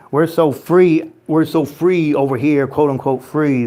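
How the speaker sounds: mock boasting about freedom; sarcastic. Streamer mocking national pride to chat, sarcastic. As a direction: lean on the boast with irony. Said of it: "I'm being sarcastic".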